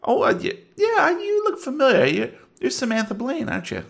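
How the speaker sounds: high, nervous cop voice; Barfellow voice. Acted. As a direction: stammer it like a flustered cop.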